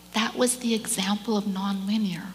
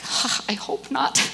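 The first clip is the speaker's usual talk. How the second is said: unvoiced; 3 semitones higher than usual. Her answer to a question.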